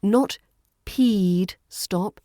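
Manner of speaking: "peed" drawn out with a long vowel; wrong long vowel. Shown as a demonstration. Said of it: "There's no long E sound".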